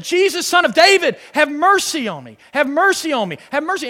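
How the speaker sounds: imitated crying out. Preacher voices woman begging Jesus for mercy, crying out. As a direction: call out repeatedly, voicing her plea. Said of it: "She's crying out and said".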